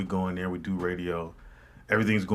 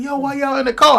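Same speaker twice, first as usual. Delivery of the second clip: Cal; 9 dB louder than usual. Retold or imitated. Retold Cal arriving, high.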